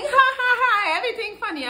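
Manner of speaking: high squealing fake laugh; mock giggly girl. Mocking a girl who laughs at his jokes, high giggle. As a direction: ham up a girl laughing at everything. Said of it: "she's, like, laughing".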